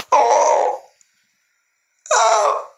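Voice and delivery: high wailing oh's in a celebrity impression; put-on actressy wail; Sarah Paulson. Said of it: "That's my Sarah Paulson impersonation".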